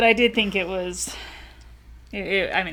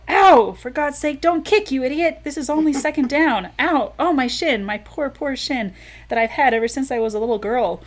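higher and louder, exasperated yelps; pained outburst; 6 semitones higher, 4 dB louder than usual. Acted. Woman kicked by her dance partner, pained exasperation. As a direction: cry out as your shin gets kicked.

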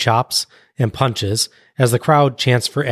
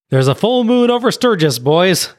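mock Dusty yell; 8 semitones higher than usual. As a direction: yell it out like an excited commentator. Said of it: "Dusty yells".

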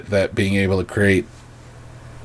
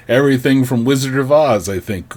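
ordinary delivery

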